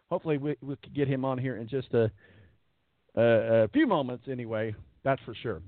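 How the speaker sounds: hoarse, strained voice giving out; losing voice. Real, not acted. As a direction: voice fading from overuse. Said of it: "I have got to take a losing my voice break".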